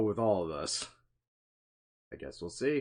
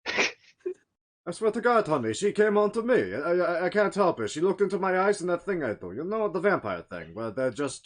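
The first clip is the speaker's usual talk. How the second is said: high, pleading excuses; 6 semitones higher than usual. Pretend. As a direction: beg the wife for forgiveness. Vampire excuses to wife.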